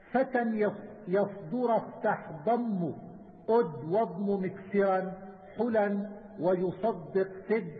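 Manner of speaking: slow, measured metrical recitation; didactic verse recitation. Acted. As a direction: recite the memorised verse slowly, drawing out syllables. Recites didactic verse, then explains. (إلقاء منظومة علمية ببطء وعلى الوزن)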